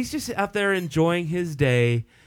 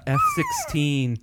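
much higher, slow squeak; squeaky high voice; slower than usual. Real, not acted. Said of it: "I love your sound effects".

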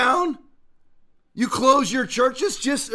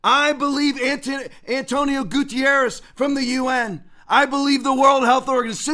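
mock confession; 5 semitones higher than usual. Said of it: "Just say".

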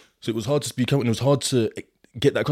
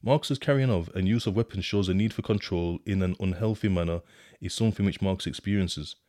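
rereading in disbelief. Shown as a demonstration.

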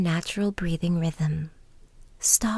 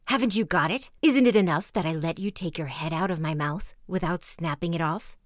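snarling wolf; 3 dB louder than usual. Acted. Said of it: "snarled the wolf".

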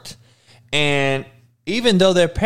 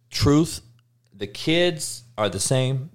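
ordinary talk

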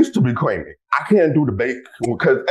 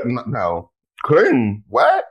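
mock shock; much slower than usual. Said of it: "I'm like".

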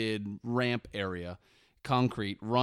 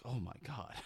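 imitated guilt; 14 dB quieter than usual. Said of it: "would be racked with guilt later".

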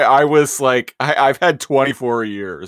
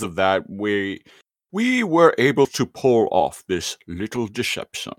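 first attempt at Megatron, slipping toward Sean Connery. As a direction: try the villain voice, not quite landing. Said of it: "I thought you were doing Sean Connery at first".

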